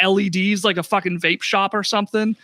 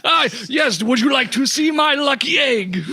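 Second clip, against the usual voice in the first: hammed-up Jamaican shopkeeper, higher; showing off the egg in a put-on Jamaican accent; 5 semitones higher than usual. Dwarf shopkeeper offering players his lucky egg in Jamaican accent. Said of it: "do I attempt the Scottish dwarf accent".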